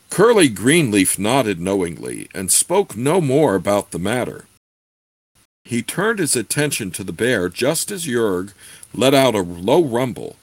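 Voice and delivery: steady read-aloud narration; story narration. A narrator's reading. Reads the novel aloud.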